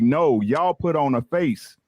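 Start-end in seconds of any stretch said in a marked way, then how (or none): none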